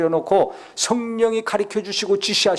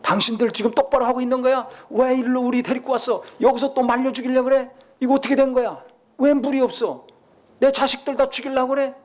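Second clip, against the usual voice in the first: higher-pitched, mock angry confrontation; confronting complaint; 4 semitones higher than usual. Thirsty people confronting Moses and Aaron, acted angry complaint. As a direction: fire accusing questions in an acted protest. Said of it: "모세한테 가서 막 따지는 거예요".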